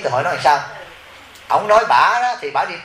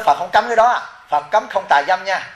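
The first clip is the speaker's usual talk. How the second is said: retold scolding, higher and a touch firmer; mild scolding; 4 semitones higher than usual. Monk scolding the wife over her vow, raised voice. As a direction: correct her firmly, like a teacher. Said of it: "Tôi mới la bà đó".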